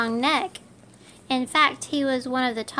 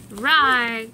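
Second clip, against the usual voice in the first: mild dinosaur growl; a playful little roar; growled rawr; 5 dB louder than usual. Acted. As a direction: kid playing dinosaur, growling. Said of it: "growled Geo".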